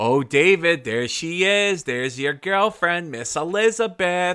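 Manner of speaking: put-on thick New York accent, loud and high. Quoting his grandmother while they watched wrestling, in her thick New York accent. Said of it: "thick New York accent".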